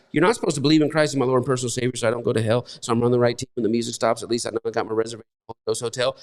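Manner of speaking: mocking recital. Mocking shallow believers' creed.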